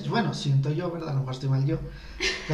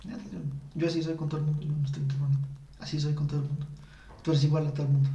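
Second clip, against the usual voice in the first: sulky denial; 4 dB quieter, faster than usual. Retold or imitated. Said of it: "es como que".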